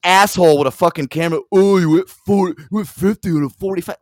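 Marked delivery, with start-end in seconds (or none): 1.5-4.0 loud, high put-on tattletale voice; mocking imitation. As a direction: mimic an annoying accuser with contempt. Mocks the kid filming the trooper.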